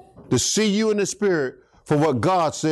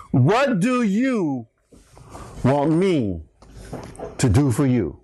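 slow, weighty question, falling low; lightly voiced solemn Jesus; God speaking; 4 semitones lower, slower than usual. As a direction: ask it slowly, letting each phrase land. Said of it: "here's what God said to him".

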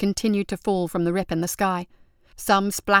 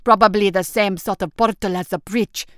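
arguing; 4 dB louder than usual. Acted. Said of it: "argued another".

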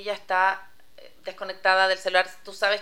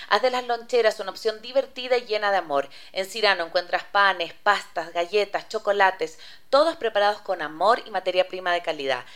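measured ad-read delivery, a touch emphatic; scripted radio sponsor spot; 3 dB louder than usual. Acted. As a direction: read out the sponsor's message to listeners. Reads the sponsor message.

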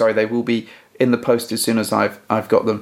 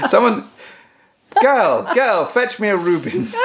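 mock haughty lady; 8 semitones higher, slower than usual. Mock grand lady summoning servant.

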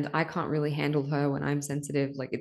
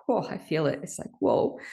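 welling up. Real, not acted. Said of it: "I'm probably gonna cry as I say this".

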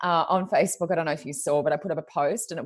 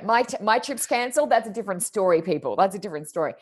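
exasperated complaint; 4 semitones higher, 4 dB louder than usual. Retold or imitated. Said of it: "you're like".

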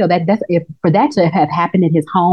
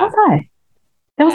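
excited; 9 semitones higher, faster than usual. Real, not acted. Raving about the eye.

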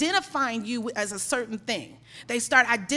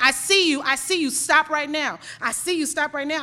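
retold stern warning, a bit louder; firm confrontation; 3 semitones higher, 5 dB louder than usual. Store manager confronts a shoplifter he caught, firm retold warning. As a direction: catch them out firmly.

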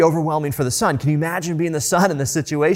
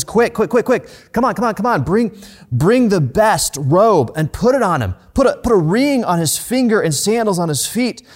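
much higher and louder, calling out commands in a rush of joy; urgent joyful calling; 5 semitones higher, 4 dB louder than usual. Retold or imitated. Father calling his servants to prepare a feast, elated and loud. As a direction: summon the servants like a father bursting with happiness. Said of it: "he starts calling them".

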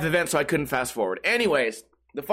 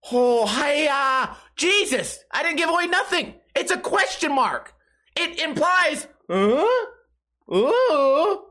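exasperated yelling; 8 semitones higher, slower than usual. Real, not acted. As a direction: yell at the dumb commenter in disbelief. Ranting at commenter, yelling.

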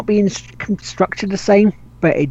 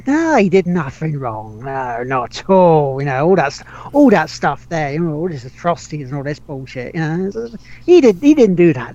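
sarcastic. Pretend. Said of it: "Sarcasm, folks".

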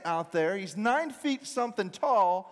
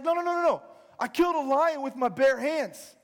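higher-pitched, eager protest; insistent boast; 5 semitones higher, 4 dB louder than usual. Acted. David convincing doubters he can fight, insistent. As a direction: protest your case as the underdog.

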